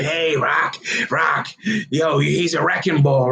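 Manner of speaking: lightly voiced gruff old boxing mentor; Mickey. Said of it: "you can hear Mickey's voice right now".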